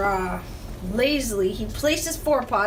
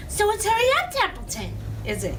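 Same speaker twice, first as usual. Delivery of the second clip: imitating Wilbur; 9 semitones higher, faster than usual. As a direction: parody the pig's pleading. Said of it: "He began imitating Wilbur's voice".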